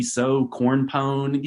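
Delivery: exaggerated slow Southern drawl on "so corn pone"; a hammed-up Southern accent, stretched out slowly. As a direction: lean hard on a mock Southern accent. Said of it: "Southern accents are really tricky 'cause it can be".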